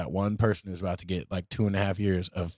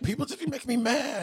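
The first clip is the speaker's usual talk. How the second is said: higher, whining complaint; answering his buddy's advice, mock whiny; whiny self-mock. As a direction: sulk it like a kid caught out.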